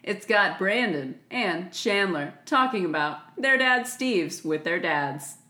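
infomercial voice. Pretend. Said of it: "Now you're selling me, like, OxyClean".

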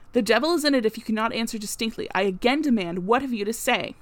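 loud, pressing demand; angry demand. Acted. Groom to Mason, an angry loud demand. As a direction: force the answer out of him.

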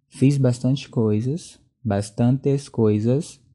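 tongue tripping, slow and slurred; slurred speech. Real, not acted. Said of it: "a língua já tá travando".

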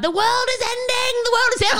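high-pitched mock yell of alarm; retold yelling. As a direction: yell it out like a doomsday crier. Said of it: "she's yelling out".

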